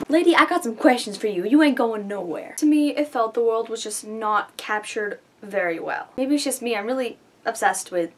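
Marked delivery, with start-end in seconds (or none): 0.1-2.5 tough guy voice. Pretend. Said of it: "Lady, I have questions for you".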